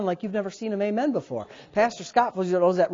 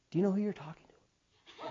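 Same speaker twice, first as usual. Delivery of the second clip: quoting Scott; 12 dB quieter than usual. Retold or imitated. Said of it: "what he says to me".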